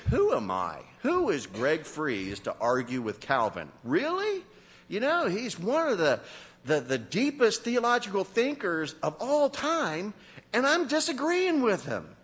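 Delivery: incredulous, rising up high on Really; mock self-doubt. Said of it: "I think".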